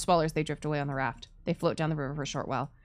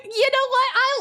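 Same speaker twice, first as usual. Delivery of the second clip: laughing; 8 dB louder than usual. Real, not acted. Laughing at joke.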